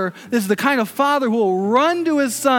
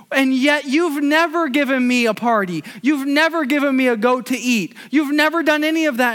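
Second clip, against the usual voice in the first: resentful complaint; 3 semitones higher than usual. Retold or imitated. Older brother complains to his father.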